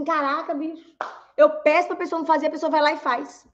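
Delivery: high-pitched, quick griping; acted-out frustration; mock exasperated complaint. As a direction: grumble in disbelief at being ignored. Acted complaint of being ignored.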